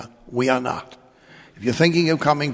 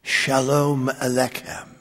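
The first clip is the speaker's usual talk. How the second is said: put-on slow, lightly done Jewish accent greeting; a gentle hint of a Jewish accent, drawn out; slower than usual. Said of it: "With a Jewish accent".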